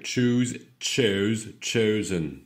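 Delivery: "Choose" with oo, "chose, chosen" with gliding oh; careful diphthongs. Shown as a demonstration. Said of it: "attention aux diphtongues".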